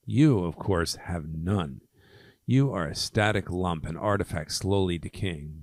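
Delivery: emphatic, proud verse recital; poem reading. Acted. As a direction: declaim the verse with punched key words. Reads a poem aloud.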